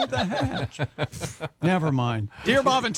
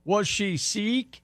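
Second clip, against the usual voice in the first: slow suspicious; 2 semitones higher, much slower than usual. Acted. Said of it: "Hang on".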